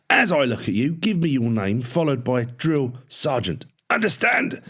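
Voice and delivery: high, loud parade-ground shout; barking drill sergeant. A narrator's reading. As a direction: bark orders down the line of recruits. Drill sergeant barking at new cadets.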